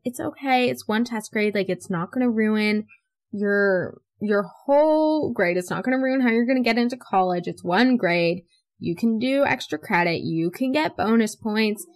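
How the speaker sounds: earnest pep talk, slightly lifted pitch; reassuring. Retold or imitated. Consoling friend over one bad test grade, reassuring. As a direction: imitate talking a panicking friend down. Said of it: "I was trying to reassure her".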